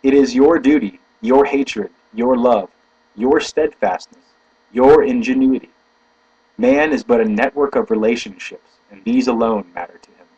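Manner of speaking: measured declamation with punched key words; solemn quote reading. Acted. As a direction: read it phrase by phrase, with weight. Reads a quotation aloud.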